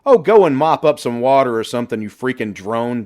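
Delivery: high, loud, scornful yell; shouting back. A narrator's reading. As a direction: fling it back down at him. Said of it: "Johnny shouted back".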